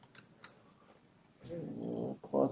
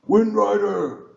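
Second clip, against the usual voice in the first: slow, called greeting; calling out; 7 semitones higher, 4 dB louder, slower than usual. Acted. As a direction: call the name across to them. NPC calls out greeting.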